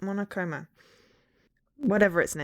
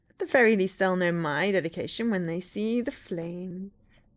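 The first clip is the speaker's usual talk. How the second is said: villain voice. Pretend. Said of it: "my villain voice".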